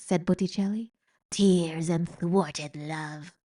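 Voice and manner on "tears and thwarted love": very slow, savouring rat voice; sly old rat. Acted. Old rat naming the smell of tears. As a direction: linger mockingly on each word.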